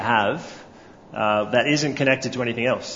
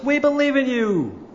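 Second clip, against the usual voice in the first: high, united crowd shout; crowd yelling back; 10 semitones higher than usual. A narrator's reading. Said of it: "the crowd yells back in one voice".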